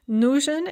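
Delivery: Нужен with a strong first syllable; stress on first syllable. Shown as a demonstration. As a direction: lean on the Ну in Нужен. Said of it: "is stressed on the first syllable".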